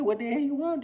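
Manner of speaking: high, mock-rude snap; rude cashier. Green-haired cashier snapping at the customer, high and mock-rude. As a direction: play the rude cashier, lightly. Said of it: "She said".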